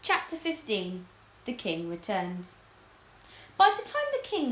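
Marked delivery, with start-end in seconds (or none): 0.0-2.6 chapter heading read slowly. A narrator's reading.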